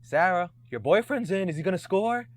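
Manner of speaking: mock hype announcer; mic announcer tease. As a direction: call it out over the PA to embarrass her. Teasing ex over the mic.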